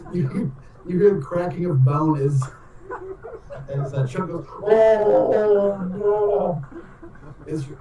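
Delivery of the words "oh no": high, drawn-out groan of pain. Acted. Player voicing Usador as his bones crack, pained groan.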